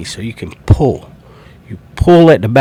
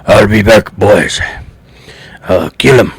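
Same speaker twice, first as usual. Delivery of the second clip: put-on half-hearted German-accented action hero; lightly attempted Schwarzenegger-style German accent; bad German accent; 2 semitones lower than usual. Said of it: "that, uh, German accent".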